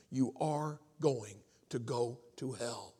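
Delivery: slow, word-by-word warning; solemn warning. Retold or imitated. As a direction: space the words out gravely. Usher's solemn warning acted out.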